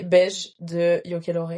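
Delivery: English title and name in a pure French accent; accent français. Shown as a demonstration. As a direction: say Beige and Yokelore the French way, slowly. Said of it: "je vais le dire vraiment en pur français". (accent français assumé)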